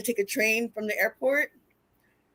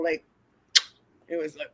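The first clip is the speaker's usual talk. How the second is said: ordinary talk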